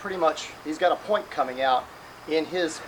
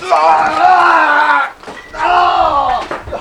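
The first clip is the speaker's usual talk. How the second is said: sudden sharp cry out; loud pained yell; 9 semitones higher, 12 dB louder than usual. Real, not acted. Sparring clash shout.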